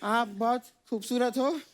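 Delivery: lightly mimicked low, halting flattery; copycat compliment. Second kid copies his friend's compliments, mock bashful mimicry. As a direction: copy your friend's bashful pauses. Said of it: "तू मेरी नकल क्यों कर रहा है".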